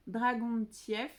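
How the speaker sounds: Dragontieff spelled out slowly, syllable by syllable; unsure pronunciation. Shown as a demonstration. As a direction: feel your way slowly through Dragontieff. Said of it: "Je sais pas prononcer ce mot-là".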